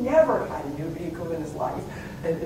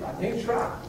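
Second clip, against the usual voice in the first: incredulous; 11 semitones higher, 5 dB quieter than usual. Retold or imitated. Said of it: "and I'm thinking".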